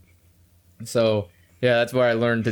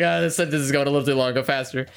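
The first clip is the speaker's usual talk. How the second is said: rushed, out-of-oxygen robot voice; quick, racing to finish the sentence; speeding up; faster than usual. Shown as a demonstration. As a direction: hurry through it before the air runs out. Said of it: "the things start speeding up".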